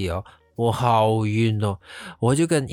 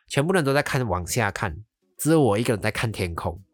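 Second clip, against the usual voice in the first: ordinary talk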